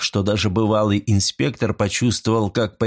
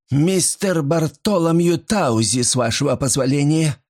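majestic; 7 semitones higher than usual. A narrator's reading. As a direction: pronounce the name with pomp. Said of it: "величественно произнесла служанка".

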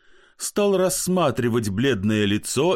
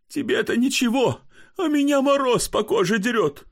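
much higher, wailing and near crying; tearful lament; 12 semitones higher than usual. Acted. Pochechuev wails to barber about the beating.

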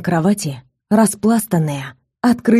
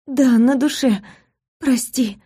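1 flustered; 5 semitones higher than usual. Acted. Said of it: "растерянно ответила я".

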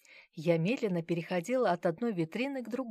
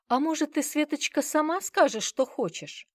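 pleading grandmother; 9 semitones higher, 6 dB louder than usual. Acted. Grandmother pleading with daughter-in-law.

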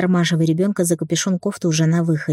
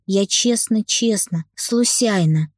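put-on child's scared whisper; 3 semitones higher, slower than usual. A narrator's reading. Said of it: "и шепчет".

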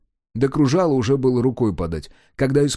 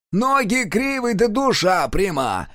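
much higher, slow retort, "Ноги" hit hard and falling; snapping back; 9 semitones higher, slower than usual. Acted. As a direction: snap it straight back. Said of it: "огрызнулся тот".

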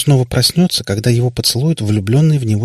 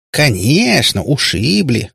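higher, gladly seizing on it; обрадованно; 5 semitones higher, much slower than usual. A narrator's reading. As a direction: pounce on it with delight. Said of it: "обрадовалась Кутияна". (радостно подхватывая)

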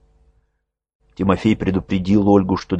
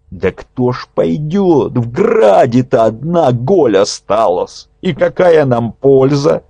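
puzzled questioning; 6 semitones higher than usual. A narrator's reading. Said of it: "не понимая, допытывался Милонек".

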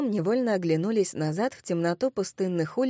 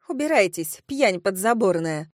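angry scolding. Acted. Woman at window abuses drunk girls, scolding angrily. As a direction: drive them off with disgust.

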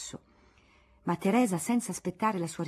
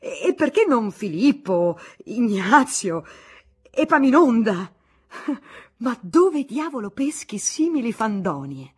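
mocking laughter; 5 semitones higher, 11 dB louder than usual. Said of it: "non riuscì a frenare le risa".

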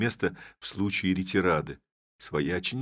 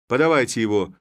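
loud, raised demand to hand him over; eager shout; 4 semitones higher, 7 dB louder, faster than usual. Acted. Village head to the constables, a loud eager demand. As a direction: shout for the prisoner. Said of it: "закричал голова".

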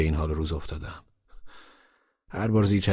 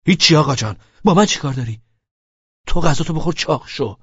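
sarcastic retort; 8 semitones higher, 7 dB louder than usual. A narrator's reading.

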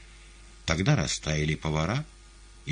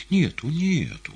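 soothing; 10 semitones higher, slower than usual. A narrator's reading. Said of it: "успокаивала".

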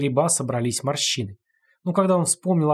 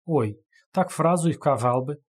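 theatrical sigh; 2 semitones higher than usual. Acted. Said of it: "театрально охнул Нос".

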